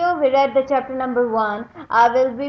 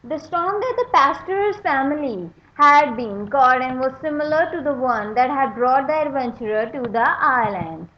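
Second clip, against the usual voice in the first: story narration. A narrator's reading. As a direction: read the chapter to young readers with energy. Teacher reads chapter aloud.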